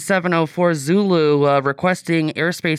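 pilot talking on the radio; clipped radio call to the tower; aviation radio voice. Retold or imitated. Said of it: "That was my aviation, uh, radio voice".

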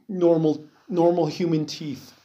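talking through hiccups; words interrupted by hiccups. Real, not acted. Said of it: "Damn, I got the hiccups".

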